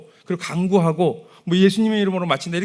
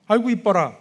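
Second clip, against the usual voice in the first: put-on higher and louder, gushing over a baby; doting baby talk; 6 semitones higher, 7 dB louder than usual. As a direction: gush over the baby, high and bright. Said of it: "이거지요?".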